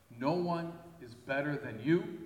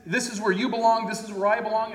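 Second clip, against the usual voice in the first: mock exclusive boast; 6 semitones higher, 5 dB louder than usual. Mocking exclusive attitude.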